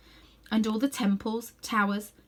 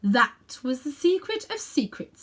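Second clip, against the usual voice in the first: solemn queen; 5 semitones higher, 3 dB louder than usual. Acted. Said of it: "said the Queen Jadis".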